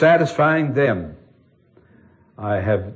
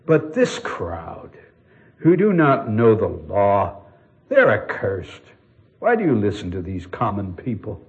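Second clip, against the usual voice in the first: snobbish contempt; 2 semitones lower than usual. Retold or imitated. Pharisees sneer at the crowd, snobbish contempt. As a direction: talk down about common people. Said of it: "the snobbishness and the contempt".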